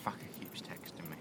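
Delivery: fast, whispered annoyed aside; whispered grumble. Real, not acted. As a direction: grumble it under your breath, quickly. Annoyed aside about texts.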